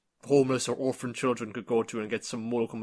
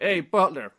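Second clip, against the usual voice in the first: put-on high, loud bratty kid calling out; bossy rich kid; 6 semitones higher, 4 dB louder than usual. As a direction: order the butler about like a spoiled boy. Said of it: "this other kid was like".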